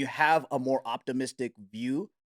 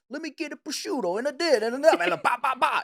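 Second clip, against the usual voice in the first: higher, rattled-off regular's deli order; regular ordering fast; 9 semitones higher than usual. Retold or imitated. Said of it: "they know".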